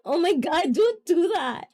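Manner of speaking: shy squeal. Real, not acted. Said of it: "you're making me shy".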